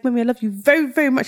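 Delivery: lightly imitated small child; a hint of sweet toddler; little baby voice. Son declaring love to mum, light baby voice. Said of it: "saying his little baby voice".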